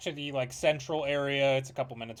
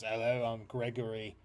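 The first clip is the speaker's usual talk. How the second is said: lightly voiced sly dealer kid; a hint of a smooth black marketeer; shady merchant kid. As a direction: pitch the wares like a shifty dealer. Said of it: "turns to the three of you and goes".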